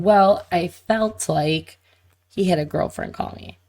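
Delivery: slowly stressing "Well, I felt like"; slow quote. Retold or imitated. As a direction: stretch out each word of "he had a girlfriend call me". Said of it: "she said".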